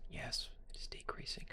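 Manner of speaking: hushed stage whisper; theatrical hushed aside; mock whisper. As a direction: whisper it like a secret. Mock-dramatic whisper over the chart.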